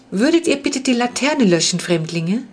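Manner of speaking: put-on the strange being politely asking the children to dim the lamp; polite creature. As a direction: ask with lofty politeness. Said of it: "sagte das Wesen höflich".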